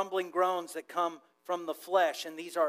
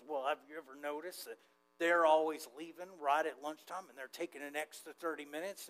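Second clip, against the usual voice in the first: office grumbler; 2 semitones lower, 5 dB quieter than usual. Acted. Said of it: "one person in the office goes".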